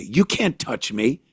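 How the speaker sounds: a touch of the mocking shoplifter; entitled thief. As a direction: drawl it out as a smug dare. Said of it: "is what she says".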